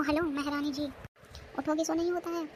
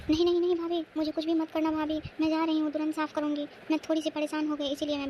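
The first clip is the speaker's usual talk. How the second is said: frightened pleading; 3 semitones higher, 3 dB louder than usual. Acted. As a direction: beg her not to hit you. Girl begs bhabhi not to hit. (डरी हुई गिड़गिड़ाहट)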